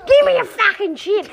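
hammed-up pushy seagull; rude seagull. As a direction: shout it like a greedy gull. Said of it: "it comes to seagulls".

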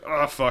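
retold groan. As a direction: groan it out in mock dismay. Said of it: "I groaned when he was like".

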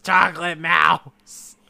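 "mouse" stretched with an exaggerated ow; mock mispronunciation. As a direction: say "Chocolate mouse" slowly, mocking how she says it. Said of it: "as she says".

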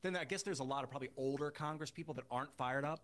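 faint, far from the mic; very quiet, distant audio; barely audible. Real, not acted. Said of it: "you sound really faint".

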